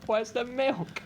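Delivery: high-pitched imitation of a shouter; hammed-up high holler; mock shouting. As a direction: mimic a housemate hollering across the house. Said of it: "imagine him shouting".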